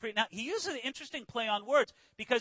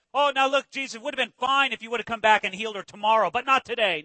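indignant; 3 dB louder, faster than usual. Acted.

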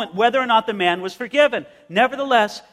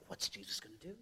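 tense disciples; 10 semitones lower, 25 dB quieter, faster than usual. Acted. Disciples voiced tense in retelling.

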